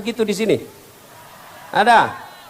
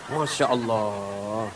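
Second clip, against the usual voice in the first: mock exasperation; 8 semitones lower, 8 dB quieter, much slower than usual. Real, not acted. Exasperated at fancy headscarves.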